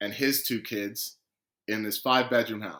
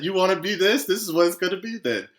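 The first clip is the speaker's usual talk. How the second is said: higher, louder mock-stern challenge; retold tough ultimatum; 8 semitones higher, 5 dB louder than usual. Woman on the phone lays down terms to him, retold tough ultimatum. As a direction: act out a no-nonsense telling-off.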